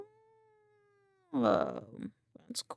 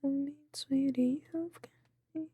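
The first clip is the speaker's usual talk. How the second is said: whispering; 2 semitones lower, 5 dB quieter, faster than usual. Acted. Whispered singing along.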